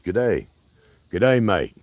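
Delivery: lightly put-on Australian greeting; playful amateur Australian twang; mock Australian accent. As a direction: try a rough Aussie accent. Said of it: "practice up on my Australian accent".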